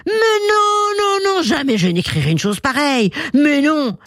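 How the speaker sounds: protestation très aiguë de lion outré; rugissement indigné. A narrator's reading. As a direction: rugis puis martèle ton refus. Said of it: "rugit le lion". (lion qui rugit, indigné)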